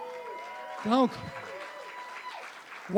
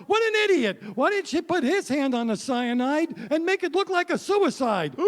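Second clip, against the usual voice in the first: wife yelling at TV; 6 semitones higher than usual. Retold or imitated. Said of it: "She's like".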